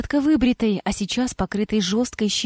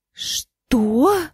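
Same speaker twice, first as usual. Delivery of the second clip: exclamation; 3 semitones higher than usual. A narrator's reading. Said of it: "воскликнула Амина".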